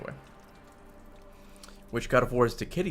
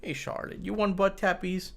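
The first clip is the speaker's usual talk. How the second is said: slow, cooing talk to the cat; 6 semitones higher, slower than usual. Real, not acted. Talking baby talk to cat.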